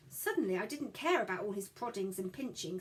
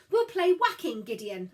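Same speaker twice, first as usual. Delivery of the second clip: excited; 7 semitones higher, 9 dB louder than usual. Acted. Child proposing rough game.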